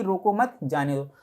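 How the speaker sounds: group रोको with मत, let जाने दो fall away; pause after मत. Shown as a demonstration. Teacher explaining the sentence's meaning, pause after मत. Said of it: "इसका क्या मतलब है कि".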